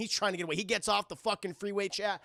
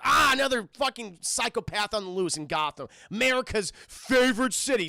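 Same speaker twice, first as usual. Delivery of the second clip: exasperated mock rant, louder on the last words; pissed off; 2 semitones higher, 4 dB louder than usual. Charlie hearing radio news of the Joker, exasperated. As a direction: grumble loudly as a fed-up driver. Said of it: "he's already pretty pissed about that".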